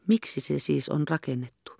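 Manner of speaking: breathy whispered question. A narrator's reading. Hannes pressing his mother about upstairs, whispering. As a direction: whisper it secretly.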